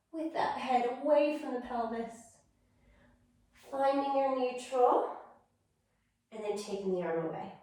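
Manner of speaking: calm, unhurried exercise cueing; guided movement cues. Acted. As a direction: talk them through each movement gently. Instructor cueing slow movement.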